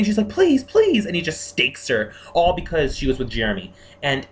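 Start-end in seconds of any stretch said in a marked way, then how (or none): 0.3-1.1 high, louder mock plea; imitating Anna pleading for her life. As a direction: beg like a victim in a mild imitation. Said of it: "she's pleading".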